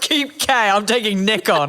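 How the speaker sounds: laughing mock dad. Mock divorce terms.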